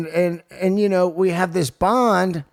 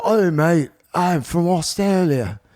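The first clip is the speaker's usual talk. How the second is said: lightly done mock Australian; bad Australian accent; 2 semitones higher than usual. Host retelling an Australian fan's greeting, bad Australian accent. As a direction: imitate an Aussie fan, not very well.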